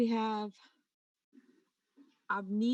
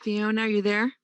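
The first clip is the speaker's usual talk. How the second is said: raised voice calling a name; calling out louder; 6 dB louder than usual. Real, not acted. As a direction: call out to check someone's there. Calling to silent remote speaker.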